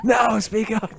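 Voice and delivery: breathy giggling whisper into the mic; giggly prank whisper. Pretend.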